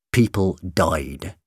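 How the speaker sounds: slow, understated sorrow; sombre sadness. A narrator's reading. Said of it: "there was real sadness in his eyes".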